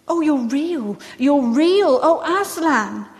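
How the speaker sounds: acted girlish delight, building; overjoyed cry. A narrator's reading. Lucy realises Aslan is alive, overjoyed cry. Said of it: "cried Lucy".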